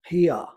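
Here said "hia", open vowel and no r; open British here. Shown as a demonstration. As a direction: let Here end open. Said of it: "Mais aberta". (Here aberto, pronúncia britânica)

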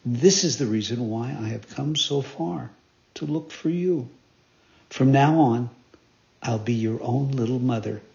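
forgiving fairy. Acted.

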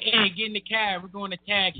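put-on lightly done Boston accent dropping the R in "Target"; a hint of a Boston cabbie. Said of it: "They be like".

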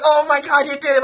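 imitating ecstatic friends, voice way up; hyped celebration. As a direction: celebrate a friend's wild win. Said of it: "it was just such a hype moment".

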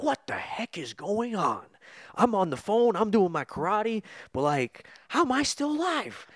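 high whiny bewildered voice; Brad Pitt impression. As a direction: whine it out, high and lost. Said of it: "That's literally Brad Pitt".

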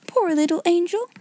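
high-pitched cooing pity; high, sugary sympathy; coaxing. A narrator's reading. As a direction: switch to soothing the child. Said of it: "say such different kinds of things".

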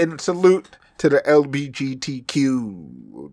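"L B G T Q" spelled out slowly, each letter separate; careful letter-by-letter. Shown as a demonstration. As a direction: spell out "L B G T Q" slowly, letter by letter, trying to get it right. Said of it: "Did I say it right this time?".

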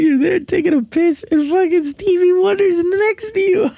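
high-pitched, laughing through the words; cracking up mid-sentence. Real, not acted. Host retelling the guest's story, laughing. Picturing a famous singer in bathroom.

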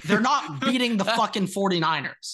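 firm, punchy denial; emphatic insistence. Real, not acted. Co-host shutting down his worried friend's fears, emphatic insistence. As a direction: lean hard on each "not".

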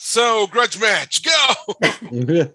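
referee call. Pretend. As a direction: open the bout like a ring announcer. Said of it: "I'll be refereeing this".

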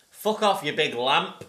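yelled film line; loud quote. Retold or imitated. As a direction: shout it at the aliens. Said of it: "basically tells the aliens".

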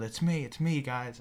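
mild re-enacted yell; retold yell. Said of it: "I yelled".

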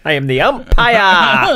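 slow, grand umpire proclamation; hammy umpire drawn out. Pretend. Repeating umpire bit.

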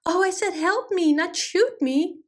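high-pitched storybook protest, slowing at the end; crying out. A narrator's reading. Goat protests as the bunny points the toy, crying out. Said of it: "cried Uncle Butter".

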